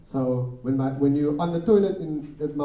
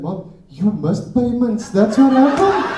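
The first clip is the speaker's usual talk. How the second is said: deadpan comeback; 7 semitones higher, 8 dB louder, slower than usual. Retold or imitated. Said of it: "I was like".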